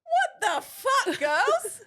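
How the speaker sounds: high shrieking yell; mock cop yelling. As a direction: screech it like an outraged cop. Imagined cops yelling at girls.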